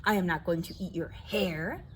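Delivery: put-on lively read-aloud for kids; reading to children. A narrator's reading. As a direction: tell the story to a circle of children. Reads picture book to children.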